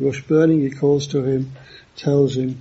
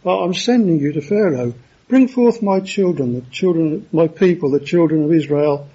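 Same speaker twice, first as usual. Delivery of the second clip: urgent command; 2 semitones higher than usual. Retold or imitated. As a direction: send them off with urgency, as God's order. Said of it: "this is a sense of urgency".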